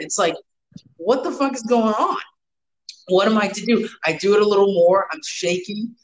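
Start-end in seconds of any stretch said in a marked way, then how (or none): 1.0-3.9 mildly panicked, pitch raised; retold fright. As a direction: act out a scared kid at a loss. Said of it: "I'm scared".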